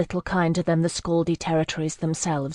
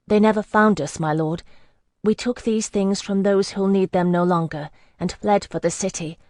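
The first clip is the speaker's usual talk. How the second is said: nervous pleading story; 3 semitones higher than usual. Acted. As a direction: sell the lie with a frightened plea. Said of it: "I trembled, not dissembling".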